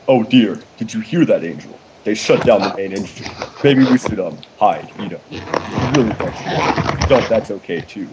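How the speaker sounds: lightly voiced timid pony; a hint of a shy, fretful pony; attempted Fluttershy voice. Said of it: "I'm gonna attempt a voice for this".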